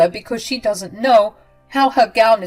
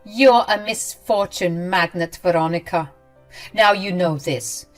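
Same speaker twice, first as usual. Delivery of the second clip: hurtful words; 4 dB louder than usual. Acted. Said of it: "she said some hurtful words".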